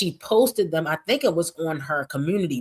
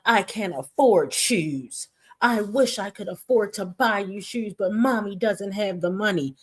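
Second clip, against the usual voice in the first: mocking whiny mom; 3 semitones higher than usual. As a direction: drag it out like a put-upon mother. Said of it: "So she was like".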